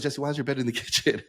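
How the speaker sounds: a bemused friend's laughing question. Retold or imitated. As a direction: friend asking while cracking up, retold. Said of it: "He goes".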